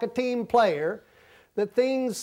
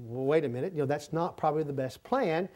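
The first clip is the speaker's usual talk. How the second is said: hesitant objection; 4 semitones lower, 5 dB quieter than usual. Retold or imitated. Retells his cautious objection.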